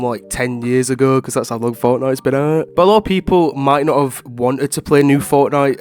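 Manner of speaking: stuffy, congested voice; blocked nose. Real, not acted. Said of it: "sounds like someone's holding my nose".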